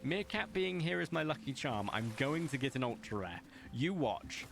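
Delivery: high-pitched hyped certainty; overconfident, all in on the cope; hyped-up coping. Acted. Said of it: "The cope is real".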